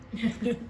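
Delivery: short breathy laugh. Real, not acted. Laughs after harsh comment.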